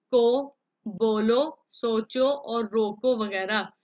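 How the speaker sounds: teacher slowly shows how बोलो takes the short-lipped o; slow, clear majhool o vowel in बोलो. Shown as a demonstration. Teacher shows pupils the majhool o, slowly. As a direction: draw out the o in को and बोलो, unhurried. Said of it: "वाव मजहूल कहलाता है".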